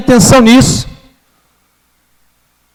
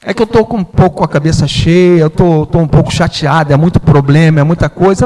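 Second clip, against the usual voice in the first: apology; 5 semitones lower than usual. Retold or imitated. Apologizing softly to mother.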